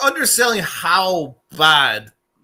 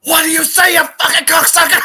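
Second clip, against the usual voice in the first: much higher and louder, yelling at the waiter; shouted insult; 12 semitones higher, 7 dB louder than usual. Retold or imitated. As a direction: bellow the insult like you're about to fight.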